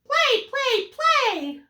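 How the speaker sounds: high, loud eager cries; excited gosling. Acted. Gosling begging Jack to play, high and eager. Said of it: "cried the excited baby goose".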